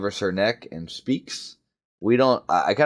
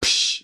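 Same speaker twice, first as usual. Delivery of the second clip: hiss. Shown as a demonstration. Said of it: "Let me do it one more time".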